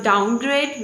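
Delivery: "downgrade" with the weight on grade; stress on GRADE. Shown as a demonstration. Teacher giving an example word, stress on grade. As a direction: stress the second part, grade. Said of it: "the final element is stressed".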